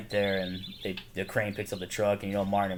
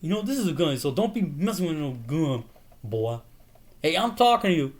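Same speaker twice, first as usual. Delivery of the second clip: high, loud yelled threat; hammed-up shouting threat; mock yell; 13 semitones higher, 5 dB louder than usual. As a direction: shout him down with a gun. Acted gun threat quote.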